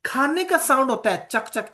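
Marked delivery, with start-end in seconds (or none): 1.3-1.7 soft imitated chewing clicks, chak chak; chewing sound. Shown as a demonstration. Teacher mimics an eating sound for the class, quiet clicks. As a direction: click the tongue like someone eating. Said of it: "चक वाला".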